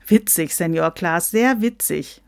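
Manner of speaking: mildly mocking jibe; teasing. Someone in the video call ribs Klaas, teasing. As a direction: needle him with dry sarcasm. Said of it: "frotzelte jemand".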